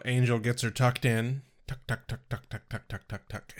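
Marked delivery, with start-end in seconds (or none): 1.7-3.5 fading to soft. Pretend. Fading repeated tuck.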